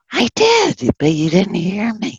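squeaky high plea breaking up on I did; high squeal of injured innocence; hurt horse. Retold or imitated. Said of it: "And the horse is like".

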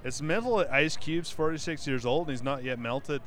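put-on light Scottish accent, dry joke; hint of a Scottish accent. Host reads a joke tweet to cohosts in a light Scottish accent. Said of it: "read some Scottish tweets in my best Scottish accent".

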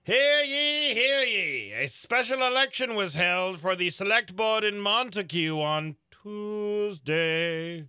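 high, slow proclamation like a town crier; old-timey town crier. Acted. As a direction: announce it like an old-fashioned herald. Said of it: "read in a, uh, special old-timey voice".

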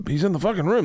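high-pitched imitation of an alarmed kid; urgent mock-kid objection, voice up high; protesting daughter. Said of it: "She's like".

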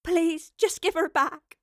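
high, slow pleading; drawn-out, feeble high plea; weak plea. A narrator's reading. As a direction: beg weakly for someone's return. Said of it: "Evie said weakly".

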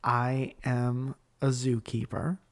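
slow, low-pitched deadpan; feigned self-importance, measured and low; deadpan prank claim. Retold or imitated. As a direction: state it slowly with total seriousness.

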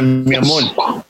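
slow, sweet-talking "mi amor"; retold sweet talk, slowed down; acting nice. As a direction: draw it out to kill with kindness. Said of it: "I'm even being nice".

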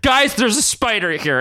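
high, slow mock alarm; Warren. Warren flying above everyone, mock alarm. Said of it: "which Warren screams".

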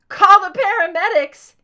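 high, full-throated anguished scream. Acted. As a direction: scream it out in raw panic. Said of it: "he screamed".

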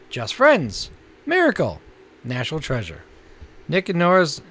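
announcer-style list reading; listings read. Acted. Co-host announcing this month's new Netflix titles, measured announcer read.

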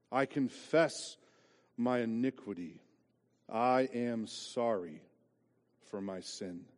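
slow, solemn reading of psalm; scripture reading. Acted. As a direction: read the verses gravely.

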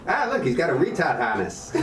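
put-on a weak, laughing stab at an Australian accent; bad Australian accent. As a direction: imitate an Aussie mate, badly, through laughter. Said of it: "That's the worst Australian accent".

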